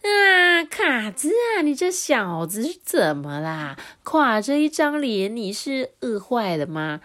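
loud, booming bully wolf cackling then boasting; hearty brute wolf voice, high and loud; big wolf Bali, laughing. Acted. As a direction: play the swaggering boss wolf.

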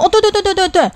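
high, eager run of "对"; eager tout. Retold or imitated. Touting driver assuring a lone traveller, high eager yes. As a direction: play the pushy driver, all yes-yes.

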